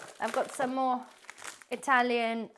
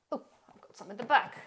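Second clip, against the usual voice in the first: sudden hushed whisper; whispered aside while rummaging at the back of the cupboard. Real, not acted. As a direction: drop to a whisper as you spot it at the back.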